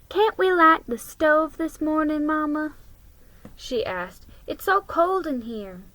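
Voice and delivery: put-on a cold child begging her mother; pleading child. Child Addie pleading about the cold.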